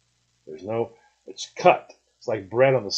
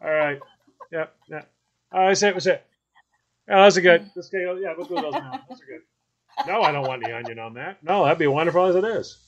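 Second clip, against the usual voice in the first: grandpa at the grill; 5 semitones higher than usual. Retold or imitated. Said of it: "He'd go".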